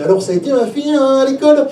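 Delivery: acting the dad asking his little girl; lightly played parent talking to a child; eager dad. Dad asks daughter about school.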